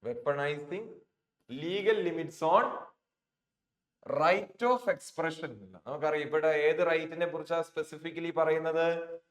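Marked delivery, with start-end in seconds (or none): 1.5-5.5 very slow, word-by-word reading of the text; slow read-aloud. Shown as a demonstration. Teacher reads the exam sentence to students, very slowly. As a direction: read each English word out slowly for the class.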